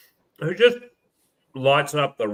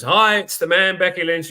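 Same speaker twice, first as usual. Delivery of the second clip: higher and louder, a hammed-up swagger; retold brash intro; 6 semitones higher, 6 dB louder than usual. Host imitating Becky Lynch's brash station ID, higher and louder. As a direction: imitate her cocky radio tag. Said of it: "She goes".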